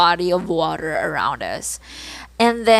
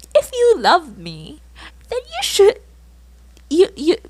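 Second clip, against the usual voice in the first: exasperated; 9 semitones higher than usual. Real, not acted. Exasperated rant at the crush.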